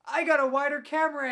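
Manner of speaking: high, loud happy greeting; excited shout. Real, not acted. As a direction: burst in cheering.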